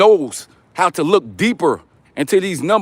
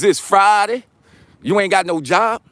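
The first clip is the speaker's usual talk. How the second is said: half-playful quote of the film; quoting Friday movie; 3 semitones higher than usual. Retold or imitated. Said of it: "What movie is that from".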